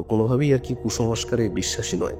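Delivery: usual speaking voice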